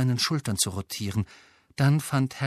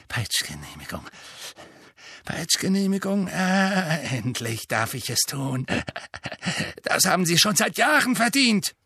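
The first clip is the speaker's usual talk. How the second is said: gleeful; 7 semitones higher than usual. A narrator's reading. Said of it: "ganz aus dem Häuschen vor Freude".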